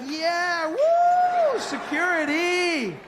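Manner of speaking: high, loud whooping, then slow; party cheer. Retold or imitated. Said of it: "you'd be like".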